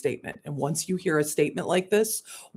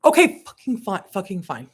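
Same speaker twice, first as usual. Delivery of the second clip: louder then trailing off; grudging surrender; 2 semitones higher, 4 dB louder than usual. Real, not acted. Giving in to her guides, grudgingly annoyed. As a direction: give in, annoyed.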